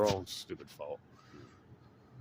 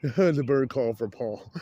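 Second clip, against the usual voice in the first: "The bird call for Paul" drawn out slowly, louder, through laughter; laughing; 5 semitones higher, 5 dB louder, much slower than usual. Shown as a demonstration. Joking to a friend about a bird call for Paul, laughing and slow.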